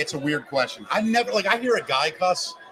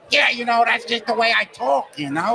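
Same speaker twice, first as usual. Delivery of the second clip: a light Buddy Hackett impression, higher and louder; 5 semitones higher, 4 dB louder than usual. Retelling an old comedian's interview, lightly imitating him. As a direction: toss it off as a cheerful old-timey comic. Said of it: "And that's how he talked".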